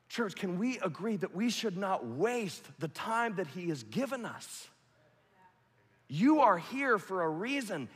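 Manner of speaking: high, loud exhortation to the church; rally the congregation; full-force preaching. Acted. Pastor urging the church not to waste time, loud preaching.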